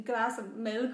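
lightly hammed-up sultry delivery; drawn out, mock-sexy. Imitating a narrator making milk sound seductive, mock-sexy. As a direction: stretch it out as if trying to be sexy. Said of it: "drawn out and, like, trying to be sexy".

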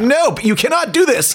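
high mock-strict refusal. Dad telling kids to leave the TV, mock strict. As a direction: shoo the kids off, half joking. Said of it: "I was like".

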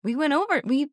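very high, wavering mock-ghost voice; spooky voice. Host reminding co-host of rehearsal, mock spooky voice. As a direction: pitch it way up, play-spooky. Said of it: "we're doing the spooky voice".

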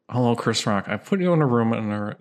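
lightly imitated movie villain, fairly monotone; not-Jigsaw villain voice. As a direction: lightly impersonate a puppet-master killer's announcement. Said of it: "Can you impersonate it?".

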